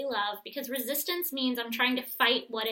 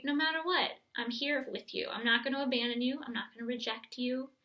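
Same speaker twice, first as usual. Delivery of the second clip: tender reassurance. Shown as a demonstration. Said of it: "and just say".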